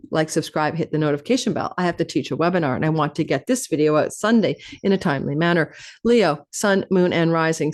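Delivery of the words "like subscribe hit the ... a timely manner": hurried, lower-pitched rattle; talking fast. Real, not acted. Host rushing to get the video out, talking fast. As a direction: rush through it, pressed for time. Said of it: "I know I'm talking fast".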